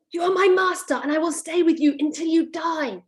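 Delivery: a touch of high bossy fairy; lightly voiced fairy declaring ownership; half-committed fairy voice. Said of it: "I don't think I committed to it fully".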